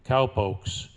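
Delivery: cowboy poem recitation; cowboy twang. Acted. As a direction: recite it like a trail-worn cowboy poet.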